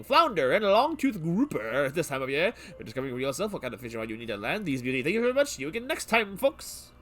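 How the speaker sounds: fisherman voice. Acted. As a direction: rattle it off like a fishing show host. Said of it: "I wanna finish my fisherman voice".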